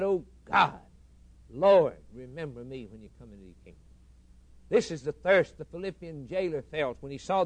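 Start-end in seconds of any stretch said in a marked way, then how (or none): 0.0-3.8 loud desperate plea to God; thief's cry. Acted. Dying thief crying out loudly to the Lord. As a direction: cry out from the cross.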